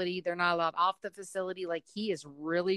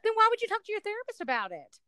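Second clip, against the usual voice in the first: pressing question; 11 semitones higher, faster than usual. Real, not acted. Mother presses son.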